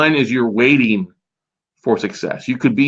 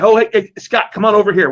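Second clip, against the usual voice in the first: higher-pitched retold hail; calling someone over; 9 semitones higher than usual. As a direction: act out waving a friend over.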